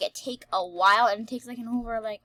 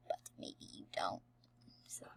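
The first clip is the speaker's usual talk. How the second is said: whispering; 16 dB quieter than usual. Real, not acted. Teasing aside to viewers.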